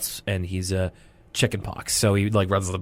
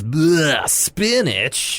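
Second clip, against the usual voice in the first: little sister voice; 4 semitones higher, much slower than usual. Retold or imitated. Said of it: "D W even says".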